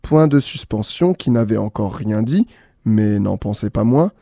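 bright storyteller reading with voiced punctuation marks; lively story reading. A narrator's reading. A radio host reads the punctuation story aloud, lively. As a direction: read the tale playfully to listeners.

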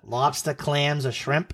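New England accent. Shown as a demonstration. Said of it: "my fake New England accent that I have".

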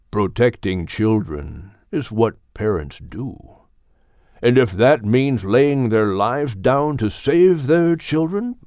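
lightly deepened, slow and earnest elder; a patient elder teaching, slow; wise old Gilliman. Acted. Old Gilliman teaches puppy Max about parents, slow and earnest.

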